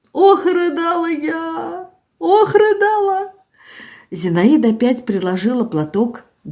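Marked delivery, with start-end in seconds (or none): 0.1-3.3 slow, high keening wail; keen it out like mourning; wailing lament. Acted. Zinaida recalling her grief, slow high wail.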